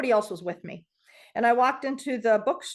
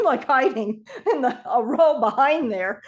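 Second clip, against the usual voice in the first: laughing; 2 semitones higher, 5 dB louder than usual. Real, not acted. Hiding in bookstore, laughing.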